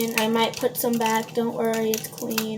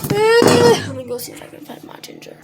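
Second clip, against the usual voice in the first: much higher, singsong "Let me go see if I can find my ginger."; playful high-pitched "Let me go see if I can find my ginger."; high silly voice; 10 semitones higher, 4 dB louder than usual. Pretend. Repeated line, sung high.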